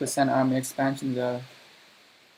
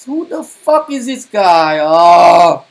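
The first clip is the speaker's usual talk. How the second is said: much higher, louder, slow enraged yell; furious shout; 3 semitones higher, 10 dB louder, slower than usual. Real, not acted. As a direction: scream at the idiot blocking you. Raging at an ally in game.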